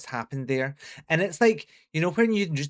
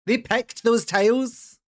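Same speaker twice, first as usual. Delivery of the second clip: high, loud, slow disbelieving question; stunned they chose that; incredulous; 8 semitones higher, 6 dB louder, slower than usual. Real, not acted. Shocked by the tiles.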